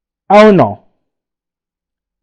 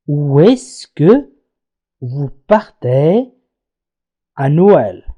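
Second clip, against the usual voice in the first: each word slow and clear; slow teaching read; 3 semitones lower, much slower than usual. Shown as a demonstration. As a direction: spell it out slowly for the class. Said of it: "حاولوا أن تتابعوا معي". (نطق بطيء وواضح)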